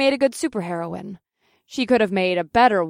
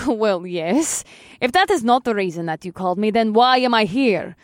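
irritated Russian heroine; 2 semitones higher, 3 dB louder than usual. Acted. Killer Kitten retorts, accented.

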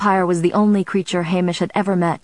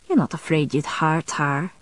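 gentle. A narrator's reading. Friend asks the vampire about hurting her, gently. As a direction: ask with a touch of tenderness. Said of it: "Hamish asked gently".

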